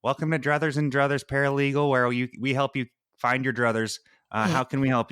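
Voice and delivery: chirpy tiny receptionist voice; little voice. Acted. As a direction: welcome him in a small high voice. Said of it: "you hear a little voice say".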